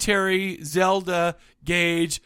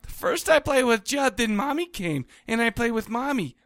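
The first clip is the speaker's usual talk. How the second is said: put-on creepy child voice; 4 semitones higher than usual. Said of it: "in my best Northeastern accent".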